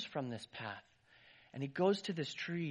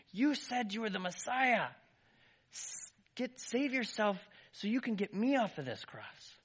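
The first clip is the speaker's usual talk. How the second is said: loud, higher angry yell; screaming; 7 semitones higher, 4 dB louder than usual. Acted. Criminal on the cross screaming at Jesus, angry yell. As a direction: hurl it at him in rage. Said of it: "he was screaming at Jesus".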